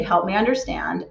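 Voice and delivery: gentle, sincere 'Help me understand'; genuine tone. Shown as a demonstration. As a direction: ask it openly, without a hint of sarcasm. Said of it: "genuine, authentic tone of voice".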